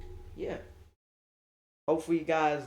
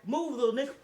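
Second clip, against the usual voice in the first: high-pitched mock order; bossy command; 8 semitones higher, faster than usual. Girlfriend pushing through people, high bossy command. Girlfriend's shove acted out again.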